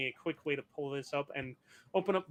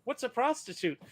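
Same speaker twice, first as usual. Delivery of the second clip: quoting robot; 7 semitones higher than usual. Retold or imitated. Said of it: "Grim saying".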